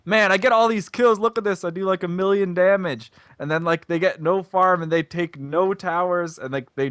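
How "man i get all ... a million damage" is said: higher-pitched mock boasting gamer; bragging player. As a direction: imitate a player showing off, louder and higher. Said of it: "LeBlanc players that are like".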